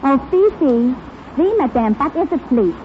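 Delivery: French maid. Acted. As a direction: play a French maid from Paris, broken and bold. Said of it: "Are you a French maid?".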